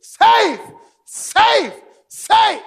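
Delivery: loud high crowd yell of safe; excited crowd calling safe; cheering shout. Retold or imitated. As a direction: yell it like the home team cheering. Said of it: "came out of the dugout cheering".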